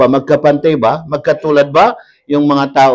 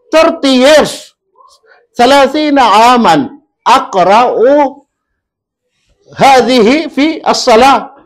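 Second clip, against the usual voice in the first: crying father; 8 semitones higher, 4 dB louder, slower than usual. Retold or imitated. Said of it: "umiyak naman yung tatay".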